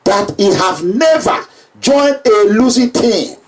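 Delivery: slow, deliberate repeat with weight on never; slow down and lean on never. Shown as a demonstration. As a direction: spell it out slowly, never stressed. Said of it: "Remember that word".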